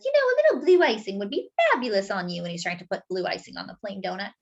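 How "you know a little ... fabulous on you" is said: fast, chatty, fabulous stylist voice; a lightly voiced fashion stylist giving advice; gushing stylist. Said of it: "This one says".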